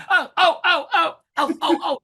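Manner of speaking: eager, high, loud student begging to be called on; Arnold impression. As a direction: burst out in high, excited repeated oohs. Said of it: "Who used to say that?".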